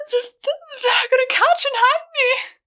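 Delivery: high, tearful stuttering panic; a terrified filly cowering in the wagon; terrified stammer. Acted. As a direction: stammer it out through tears. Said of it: "Wire whimpered".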